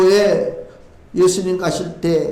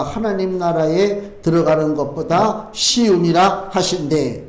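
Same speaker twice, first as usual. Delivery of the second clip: measured, lower-pitched Bible reading; scripture reading; 5 semitones lower than usual. Acted. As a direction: read the verse out in a low, steady register. Reads scripture aloud. (낮고 차분한 성경 봉독)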